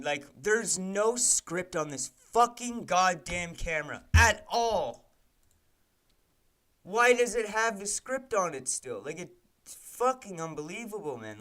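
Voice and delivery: real anger boiling over; livid. Real, not acted. Coder yelling at the camera script, livid and loud. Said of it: "I'm fucking livid".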